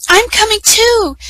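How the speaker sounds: running after them calling; eager call. A narrator's reading. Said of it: "cried Savirella".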